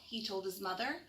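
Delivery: gentle bedtime storybook reading; reading to children. Acted. Reads picture book to children.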